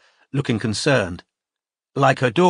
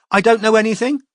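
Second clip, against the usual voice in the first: high, pleading, near tears; 11 semitones higher, 5 dB louder, faster than usual. A narrator's reading. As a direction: beg him to believe her. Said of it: "she said in a pleading voice".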